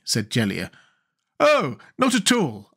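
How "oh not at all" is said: high-pitched, pleasant, slow reply. A narrator's reading. Jack declines food from the king, pleasantly. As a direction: answer pleasantly, taking your time, pitched high. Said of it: "answered Jack more pleasantly".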